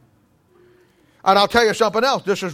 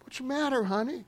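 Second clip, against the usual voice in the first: soothing mom; 4 semitones higher, 10 dB quieter than usual. Retold or imitated. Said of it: "mama comes in".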